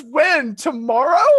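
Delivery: loud, high, pressing questions; hammed-up suitor pushing for a date; eager Philip. Philip asking Aurora for a date, mock eager. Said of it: "He goes".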